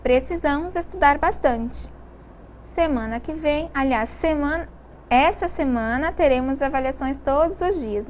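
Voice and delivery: teacher's model reading with a held pause; read with intonation. Shown as a demonstration. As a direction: pause on "bastante", then carry on into "essa semana". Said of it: "vou ler novamente com a entonação".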